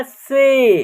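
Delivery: "से" drawn out on a long 'ay'; teacher's clear "से", A sounded as 'ay'. Shown as a demonstration. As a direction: hold the vowel in "से" as a model. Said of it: "ए का उच्चारण ए हो रहा".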